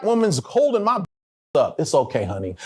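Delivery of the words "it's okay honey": tag. Retold or imitated. Mother calmly comforting crying son.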